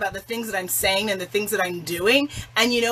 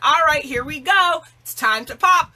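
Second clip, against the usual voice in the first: inner troll voice; 6 semitones higher, 5 dB louder than usual. Retold or imitated. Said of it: "And then she's like".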